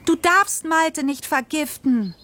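high-pitched cry without extra volume; narrated scream, pitched high and drawn out. A narrator's reading. Girl pleading with her father for the mole, a high, contained cry. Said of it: "schrie ich".

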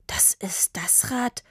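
slow stunned whisper; breathed. A narrator's reading. Papa recognizes the expensive bike, breathing in disbelief. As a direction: barely breathe the words out. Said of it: "hauchte Papa".

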